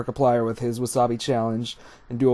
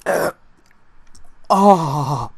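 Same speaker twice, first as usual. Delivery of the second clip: after eating wasabi; 3 semitones higher, 3 dB louder than usual. Real, not acted. Wasabi pain still burning.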